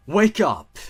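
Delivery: high, loud cry to wake; a sudden panicked yell of wake up; desperate shout. A narrator's reading. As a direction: yell it to break the dream.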